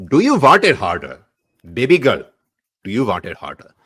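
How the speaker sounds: mock steamy dialogue. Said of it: "the dialogue has to be that".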